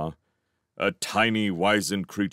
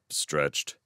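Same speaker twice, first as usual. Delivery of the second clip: ordinary delivery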